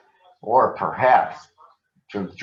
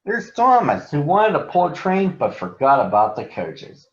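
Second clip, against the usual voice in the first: much higher, loud teasing; mocking engines; 8 semitones higher, 3 dB louder than usual. A narrator's reading. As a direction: jeer at him. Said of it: "the other engines laughed at Thomas and said".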